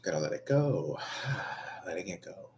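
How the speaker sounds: soft whisper, letting it go; whispered to self. Real, not acted. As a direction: whisper to calm yourself down. Calming self down, alone.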